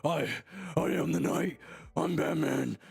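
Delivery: strained fake deep superhero voice; hammed-up dark avenger, each phrase set apart; Batman. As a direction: put on a mock-heroic strained voice. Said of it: "straight through the deep voice that it was fake".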